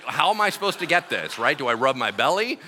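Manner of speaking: usual speaking voice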